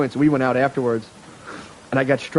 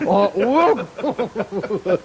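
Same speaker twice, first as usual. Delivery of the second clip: a higher, hammed-up mock Asian accent exclamation; 7 semitones higher than usual. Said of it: "practice Asian impersonations".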